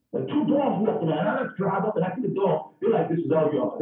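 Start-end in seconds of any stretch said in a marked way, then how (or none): 3.1-3.8 proud dog. Retold or imitated. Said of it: "That's the dog saying".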